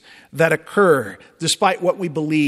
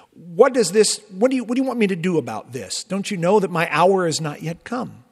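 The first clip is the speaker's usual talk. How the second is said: quick, impatient brush-off to his mother; petulant Jesus; 3 semitones higher than usual. Acted. Jesus to his mother at the wedding, mildly petulant. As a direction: rattle it off like an irritated son. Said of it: "almost a petulant Jesus".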